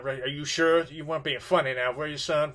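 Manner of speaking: menacing question. Retold or imitated. White man interrogating the boy.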